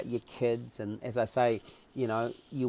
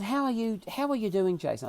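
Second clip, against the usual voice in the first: higher, lightly soothing question, dropping at the name; calming, reassuring; 6 semitones higher than usual. Retold or imitated. Bearded man checks on the patient, calming. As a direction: imitate a reassuring night visitor. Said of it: "a very calming sort of way".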